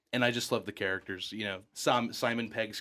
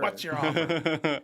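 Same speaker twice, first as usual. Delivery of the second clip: echoing Eustace; 4 semitones higher, 3 dB louder, slower than usual. Retold or imitated.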